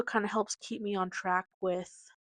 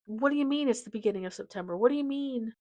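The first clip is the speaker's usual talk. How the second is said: disbelief; faster than usual. Real, not acted. Disbelief at the date.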